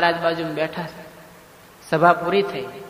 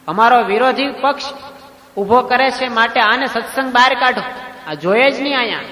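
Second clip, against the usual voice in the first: stern order; 4 semitones higher than usual. Acted. Maharaj orders Swami expelled.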